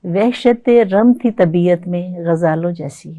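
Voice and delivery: slow, measured ghazal recital; ghazal recitation. Acted. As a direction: recite it like at a mushaira.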